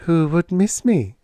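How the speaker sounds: lightly voiced young woman's retort; challenging question. A narrator's reading. Woman retorts to the man urging her back, challenging.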